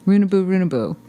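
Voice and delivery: mock Scottish lilt on runaboo; Scottish accent. Retelling the rhyme to her host in a hint of a Scottish accent. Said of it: "So it was".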